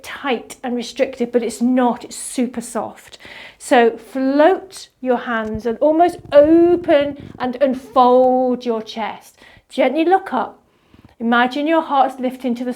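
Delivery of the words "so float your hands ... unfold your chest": slow, drawn-out words to show softness; slow emphasized cue. Shown as a demonstration. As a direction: stretch each word out to show there's no tightness. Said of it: "I'm going to emphasize the words a little bit".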